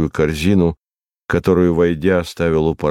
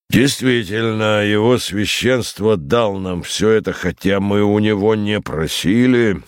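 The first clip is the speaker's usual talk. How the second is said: higher-pitched, sustained declamation; lightly theatrical rogue orator; 5 semitones higher than usual. Acted. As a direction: hold forth in a raised, lofty tone. Voices Tyburtsiy orating to the professor.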